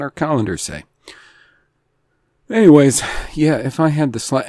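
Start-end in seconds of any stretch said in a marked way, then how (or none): 2.5-4.4 hoarse, scratchy voice; raspy voice. Real, not acted. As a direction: talk through a raspy throat. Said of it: "forgive my voice".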